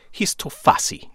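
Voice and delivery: quoting a film line in a mock Luxembourgian accent. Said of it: "in her Luxembourgian accent".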